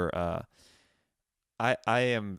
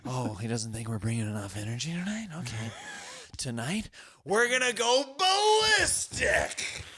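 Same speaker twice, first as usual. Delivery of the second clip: hyped pep talk; 9 semitones higher than usual. Retold or imitated. Retold pep talk outburst.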